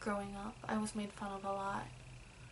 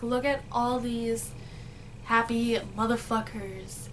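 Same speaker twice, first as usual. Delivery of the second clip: louder, bitter jab at happy strangers; angry outburst; 6 dB louder than usual. Retold or imitated. Angry child resenting happy people, loud bitter rant. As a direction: spit it out like a grudge.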